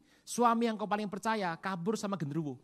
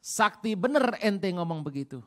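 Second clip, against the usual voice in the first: Jesus to Peter; 4 dB louder, slower than usual. Retold or imitated. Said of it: "Dia bilang sama Petrus".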